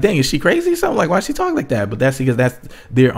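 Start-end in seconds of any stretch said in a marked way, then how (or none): 0.0-1.9 much higher, incredulous questioning; baffled viewer. Retold or imitated. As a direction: react like you can't believe what you hear. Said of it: "you're like".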